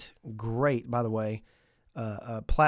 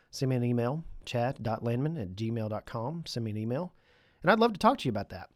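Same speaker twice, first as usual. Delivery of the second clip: stuffy nose. Real, not acted. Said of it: "sorry if I sound a little stuffy".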